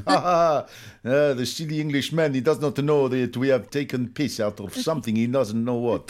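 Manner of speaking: lightly voiced jeering French crowd, laughing at him; mocking French crowd. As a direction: sneer at the silly Englishman, a hint of accent.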